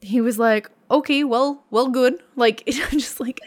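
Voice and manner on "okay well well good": put-on Fargo accent. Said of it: "I loved the accent".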